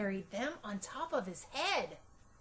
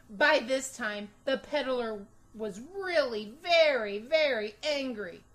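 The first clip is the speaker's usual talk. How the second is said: building emphasis; 8 dB louder than usual. A narrator's reading. Narration builds anger.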